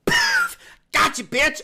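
high, loud imitated pounce; mock gotcha. Acting out a prank on her in the snack aisle, mock gotcha. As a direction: act out a sudden triumphant gotcha. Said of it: "she turns around and be like".

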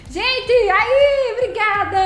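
high, loud burst of thanks; excited thanks. Real, not acted. Streamer thanking a donor, loud excited burst. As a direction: blurt it out, thrilled.

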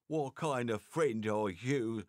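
slow, scornful question; contemptuous snap. Acted. Sarunia scolds Mikola for abandoning a friend, mild contempt. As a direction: shame him with scorn. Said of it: "Sarunia snapped with contempt".

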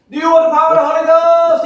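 shouted high, hammed-up revival preacher; mock revival preacher. Imitating an African revival preacher calling out to thousands. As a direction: bellow it like a preacher whipping up a crowd. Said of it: "goes up to the balcony and goes".

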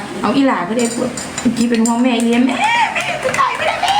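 mock tearful daughter, pitch jumping way up on the last line; squeaky fake sobbing plea from a frightened daughter; imitating daughter's wail. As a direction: ham up the worried daughter crying for mum. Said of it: "บอกว่า".

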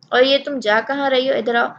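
put-on stern scold to a sulking girl. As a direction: call her back sharply. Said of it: "حرم نے ڈپٹ کر کہا".

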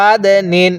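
আদ with the দ bounced out in a push; bounced qalqala. Shown as a demonstration. Teacher shows the qalqala push on the letter to learners. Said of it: "অবশ্যই ধাক্কা দিবেন".

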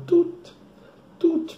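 short, high imitated beeps; checkout scanner beep. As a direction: mimic a till scanning items. (bipe do caixa do mercado)

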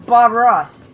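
loud call of the name. Real, not acted. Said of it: "calls enemy by nickname".

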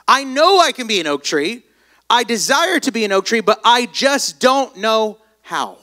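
mock frustrated longing, slowing at the end; discouraged acorn. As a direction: plead as the discouraged little acorn. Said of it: "he began to get discouraged because he began to feel like".

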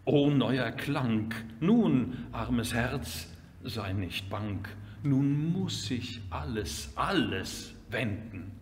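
measured lyrical reading with strong swells; poem recitation. Acted. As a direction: declaim the exclamations, then ease into consolation.

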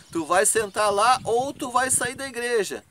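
retold heated demand in church; angry ultimatum. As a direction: give him the ultimatum hard.

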